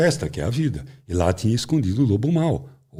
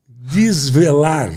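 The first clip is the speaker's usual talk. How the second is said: "desvelar" stretched very slowly and higher; emphatic DESVELAR; 4 semitones higher, 4 dB louder, much slower than usual. Shown as a demonstration. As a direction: draw out every syllable of "desvelar". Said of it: "não revelar". ("desvelar" bem esticado e enfático)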